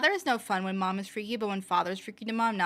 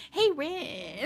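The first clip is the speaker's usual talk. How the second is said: calling out; 6 semitones higher than usual. Real, not acted. Calls a greeting to Rin.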